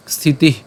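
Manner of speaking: স্থিতি with a breath released at the end; breath after visarga. Shown as a demonstration. Teacher explains the visarga, স্থিতি ending in a breath. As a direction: let air out after the last vowel of স্থিতি. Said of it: "সেজন্য আমাদের উষ্ম ছাড়তে হবে".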